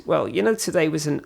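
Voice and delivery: imitating an Australian official; Australian accent. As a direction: put on a light Aussie accent. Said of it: "I'll stop the accent now".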